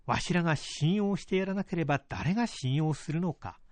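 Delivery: lightly voiced old father admonishing; a hint of a gently firm old man; creaky wise old man. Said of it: "と母を戒めた".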